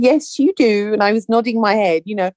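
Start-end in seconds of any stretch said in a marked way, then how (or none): 0.0-0.9 firmly voiced "Yes, you do."; firm insistence. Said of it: "And I said".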